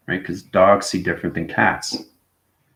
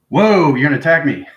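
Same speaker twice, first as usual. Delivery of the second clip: voicing a cat, higher and louder; defensive cat; 5 semitones higher, 5 dB louder than usual. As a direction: play the startled cat warning you off. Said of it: "It's like".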